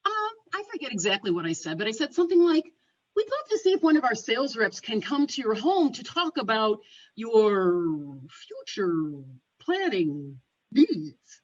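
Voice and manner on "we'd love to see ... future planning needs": careful sales euphemism. Retold or imitated.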